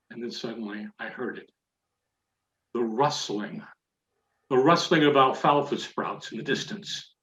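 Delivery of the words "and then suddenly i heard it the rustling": suspense hush. A narrator's reading. Hearing the enemy approach.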